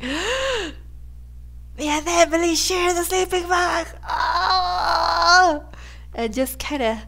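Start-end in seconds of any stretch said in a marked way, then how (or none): 0.0-5.7 mock swooning outburst; hammed-up lovestruck squeal; giddy exploding. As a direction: act out bursting with giddy disbelief. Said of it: "explode a little bit".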